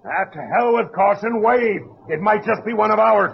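calling out high and loud with sudden hope; excited shout. Acted. Captain to his men, spotting a periscope: excited shout. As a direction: throw caution away and shout it.

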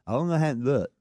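imitating a kid with a bitten tongue; lisping through a sore tongue. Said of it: "when I say he's talking like that".

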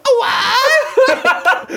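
exaggerated high, loud shriek; hammed-up drunken screech; Kelly. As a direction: wildly overdo a drunk girlfriend's squawk. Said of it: "it's not that exaggerated".

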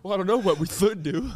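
"should" lisped as "thould"; mock lisp. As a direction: tease by putting a th in place of sh in "should". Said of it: "I have a lisp".

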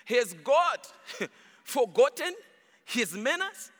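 chuckling while repeating the question; laughing through it. Real, not acted. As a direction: let real laughter break into each word. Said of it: "Oh my".

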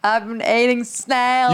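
put-on botched Australian accent sliding into redneck; attempted Australian accent. Guest trying it on request, Australian accent gone redneck. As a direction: try Australian, land lightly on redneck. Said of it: "You sound like a redneck".

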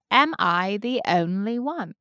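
trying out an Essex accent; careful Essex try at the line; learner's Essex accent; Essex accent attempt. Shown as a demonstration. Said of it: "did I nail only?".

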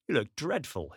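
spat out. Acted. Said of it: "he spat out".

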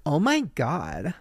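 drawn-out mock gushing; fake, insincere. Greeting someone she secretly hates, fake and insincere. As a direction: stretch it out with put-on, phony affection. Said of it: "very fake, insincere voice".

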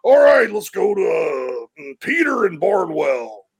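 slow, drawn-out radio host. Retold or imitated. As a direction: announce the caller like a radio host. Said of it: "Todd's like".

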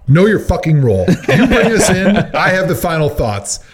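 laughing, playful scolding; laughing mock outrage. Real, not acted. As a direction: scold him through laughter.

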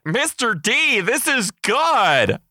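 put-on high, excited kid calling out. Munching kids call to their teacher, excited and high.

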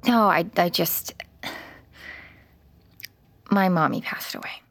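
whispered, halting grief; a choked whisper to the child; tearful whisper. Acted. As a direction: hold back tears as you say it. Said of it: "You've been crying".

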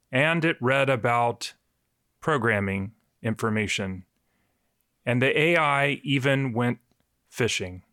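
lightly put-on literary narrator with weighty pauses; a mild mock-novelist reading, broken by long pauses; Ernest Hemingway. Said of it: "do your best Hemingway impression".

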